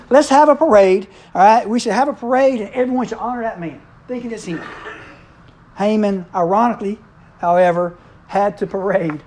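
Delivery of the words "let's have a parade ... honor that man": mildly hammed-up eager pitch; eager proposal. Preacher voicing Haman proposing a parade to the king, mildly eager.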